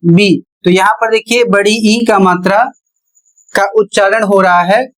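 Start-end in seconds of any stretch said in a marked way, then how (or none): 0.1-0.4 "बी" with a long ई vowel; long ee pronunciation. Shown as a demonstration. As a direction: model "बी" with a drawn ee sound. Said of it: "इसका उच्चारण होगा".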